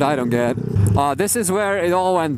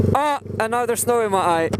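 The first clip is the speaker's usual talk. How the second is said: inside a helmet; 7 semitones higher, faster than usual. Real, not acted. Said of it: "My helmet is fogging up".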